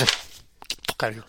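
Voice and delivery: low, very soft growl; low muttered voice. Retold or imitated. Imitating angry fighter.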